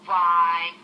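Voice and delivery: hearty praise from a dad; proud dad. Acted. A hint of Donner praising his son, hearty. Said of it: "he said to his son".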